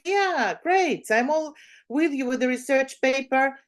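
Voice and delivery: teacher cheerfully agreeing to switch to the research paper, eager; eager agreement. Retold or imitated. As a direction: sound thrilled to get back to work.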